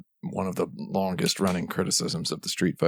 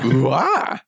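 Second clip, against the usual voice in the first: reverse Wahoo; 4 semitones higher, 3 dB louder than usual. Retold or imitated. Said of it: "Wahoo in reverse".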